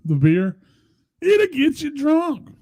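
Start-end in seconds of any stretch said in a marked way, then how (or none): 1.2-2.5 slow, much higher sketch catchphrase; Samuel L. Jackson. Retold or imitated. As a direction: drag out the beer slogan. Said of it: "With Samuel L. Jackson".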